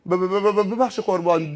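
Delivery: stuttering, flustered apology; nervous stammer. Acted. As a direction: trip over the first syllable, apologizing. Frightened driver stammers to angel. (لکنت از روی دستپاچگی)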